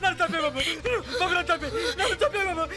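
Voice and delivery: crying, repeated entreaty; tearful begging. Acted. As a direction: wail it as a desperate plea. Sobbing servant begs to be killed.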